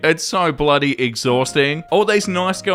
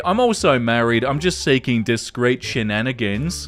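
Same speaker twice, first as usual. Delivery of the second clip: lower, sleazy quoted voice; mocking quote; 4 semitones lower than usual. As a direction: sneer the "also married" line. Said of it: "then say".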